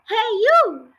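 loud, high grumpy grandma yell. Acted. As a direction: bark it down from the rooftop. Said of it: "she yelled".

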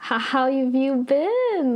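imitating stilted small talk, slow and a bit high; awkward greeting. Two old acquaintances meet at a cafe, acting very awkward. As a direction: drag out an uneasy hello. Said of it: "they're very awkward".

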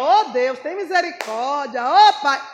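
mock plea with loud bursts on the calls; attention-seeking prayer. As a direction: imitate a showy believer calling out to God. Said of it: "quer chamar a atenção de todo mundo". (imitação de súplica espalhafatosa)

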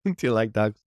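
repeated Irish brogue catchphrase; Irish accent. Shown as a demonstration. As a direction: try the Irish accent on a stock phrase. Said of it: "different phrases to help get into the character".

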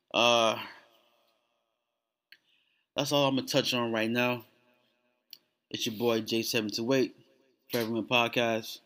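talking through a sore jaw. Real, not acted. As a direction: speak carefully around an aching jaw. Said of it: "if I sound funny, it's because my jaw hurts".

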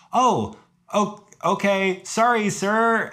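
high, halting, placating apology; meek apology. Retold or imitated. Hiker just told to get out, meekly apologetic. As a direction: act out a startled, deferential backing-off. Retelling meek reply to being cursed out.

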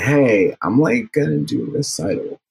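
a hint of a girl's voice, quoting; man doing a woman's voice. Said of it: "that's my default girl voice".

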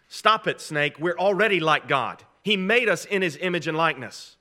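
acted indignant retort; firm rebuke. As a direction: stand up to the serpent, loud on the opening words. Preacher voices Adam rebuking serpent.

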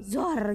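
loud whooshing "zor" of sand; sudden rushing sound effect; imitated pouring sand. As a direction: mimic sand being dumped on a roof. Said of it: "kayak nuang pasir gitu".

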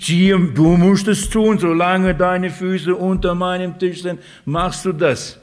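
hammed-up parental order; stern parent. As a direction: lay down the house rules like a strict father. Voicing a strict parent.

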